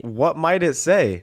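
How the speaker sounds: slow, stagey game-character question; mannered, slow video game character; stilted NPC voice. Pretend. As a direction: draw it out like a scripted NPC. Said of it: "stop talking like that".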